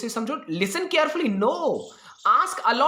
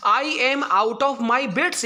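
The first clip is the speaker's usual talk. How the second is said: very slow reading; much slower than usual. Shown as a demonstration. Teacher repeats the phrase, stretched.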